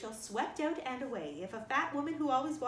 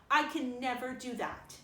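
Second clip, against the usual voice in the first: determined refusal; 5 dB louder than usual. Acted. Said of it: "said Anne determinedly".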